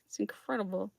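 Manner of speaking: breathy awed whisper. Real, not acted. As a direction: whisper it in amazement. Repeated in awe.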